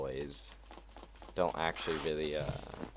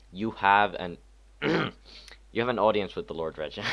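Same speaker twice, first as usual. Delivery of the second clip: louder, higher stiff guard announcement; 5 semitones higher, 9 dB louder than usual. Shown as a demonstration. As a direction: boom it out like a palace guard. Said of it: "I'll do a more husky voice".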